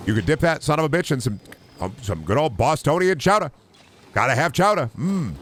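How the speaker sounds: high, lilting put-on voice; Germa. Streamer hamming up an impression about chowder, high put-on voice. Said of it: "take that as a German impression".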